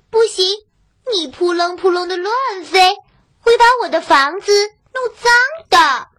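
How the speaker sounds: high, loud, quick refusal; proud little girl refusing. Acted. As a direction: snap no at the bird.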